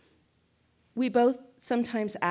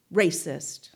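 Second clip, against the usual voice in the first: whispered word; 3 semitones lower, 4 dB louder than usual. Shown as a demonstration. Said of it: "what I hear is yours, dog, racist".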